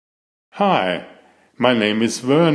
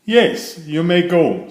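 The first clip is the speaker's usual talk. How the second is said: mother; 5 semitones higher than usual. Acted. Mother voiced by narrator.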